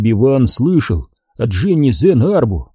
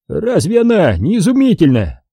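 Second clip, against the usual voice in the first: sighing; 7 semitones higher than usual. A narrator's reading. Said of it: "вздохнул Диди".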